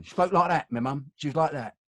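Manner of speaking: imitating mum's Luton accent. Son shows how his mum from Luton spoke, Luton accent. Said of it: "my mother came from Luton".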